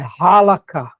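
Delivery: halakha with a throaty R sound at the start; halakha, H sounded like a semi-guttural R. Shown as a demonstration. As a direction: say halakha with the H as a guttural R, leaning on it loudly. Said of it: "tem um som de um R meio gutural".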